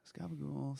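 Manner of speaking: Italian-American gabagool, dropped ending; Italian-American accent. Retold or imitated. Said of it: "What was the other one".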